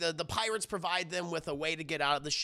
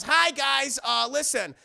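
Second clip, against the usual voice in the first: Gadget; 4 semitones higher, 4 dB louder than usual. Retold or imitated. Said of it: "Gadget comes in, she goes".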